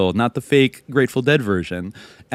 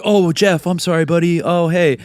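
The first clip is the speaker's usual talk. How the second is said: sheepish backpedal; 7 semitones higher than usual. Retold or imitated. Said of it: "and then he's like".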